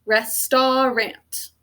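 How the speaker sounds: very slow "Restaurant" as res-tar-ant; teacher-led "Restaurant", long ah in the middle; spelling pronunciation. Shown as a demonstration. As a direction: stretch "Restaurant" into three full syllables. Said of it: "Can you say that with me?".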